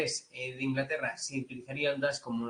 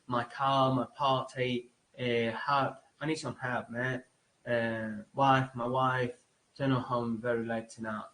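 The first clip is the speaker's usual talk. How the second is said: African American English; slower than usual. Shown as a demonstration. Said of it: "Como muy abierto".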